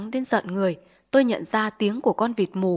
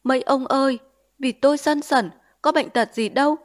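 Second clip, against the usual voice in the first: whimpering plea; 4 semitones higher, 4 dB louder than usual. Acted. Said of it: "Thằng Điền mếu máo".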